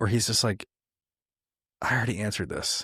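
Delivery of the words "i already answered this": put-on annoyed, irritated voice. Retelling how Tolkien answered readers' letters: imitating annoyed Tolkien. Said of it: "you can almost hear the annoyance in his voice".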